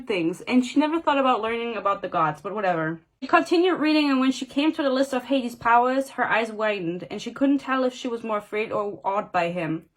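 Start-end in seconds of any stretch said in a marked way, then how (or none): 3.2-9.8 measured reading-aloud voice; story narration. A narrator's reading. Reader reciting Hades' list of powers, story narration. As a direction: read it out as a novel passage.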